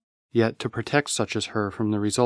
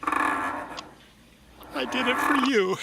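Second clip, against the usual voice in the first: very slow, higher, softer; pleading through tears; broken-hearted confession; tearful plea; 14 semitones higher, 3 dB quieter, much slower than usual. Acted.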